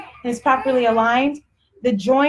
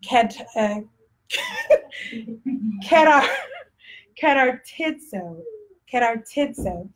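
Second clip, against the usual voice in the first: careful attempt in a Texas accent; halting, amused Texas-accented pronunciation; slower than usual. Shown as a demonstration. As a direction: sound out the foreign word with a Texas accent. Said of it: "say it in my Texas accent".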